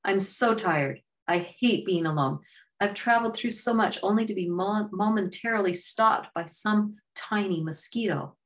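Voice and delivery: a worn-out young hero sighing over his bad luck; weary Raja. Raja complains to the bee, lightly voiced and weary.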